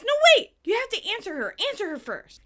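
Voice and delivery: high, urgent yell, then easing; Phoebe shouting. Retold or imitated. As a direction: yell to stop them mid-run. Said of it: "and she shouts".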